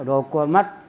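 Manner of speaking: रोको मत as one phrase, rising on मत; मत joined to रोको. Retold or imitated. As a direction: run रोको straight into मत. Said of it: "निकाल लिया कि आने में".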